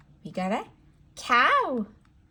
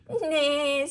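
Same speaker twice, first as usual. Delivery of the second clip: higher, drawn-out playful neigh; horse neighing; 4 semitones higher than usual. Shown as a demonstration. Teacher answering what a horse says, neighing. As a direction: imitate a horse's whinny for kids. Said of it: "says the horse".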